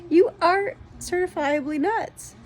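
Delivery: slow, high mock accusation; laughing teasing. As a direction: tease her, laughing, drawn out. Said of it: "I'm laughing at her ... because I'm going".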